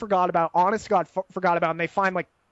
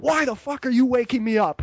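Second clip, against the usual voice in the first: mild mock yell, pitched up; 4 semitones higher than usual. Buddy pretending anger at being woken by police, mock yell. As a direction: play at yelling in outrage. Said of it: "he's yelling, pretending".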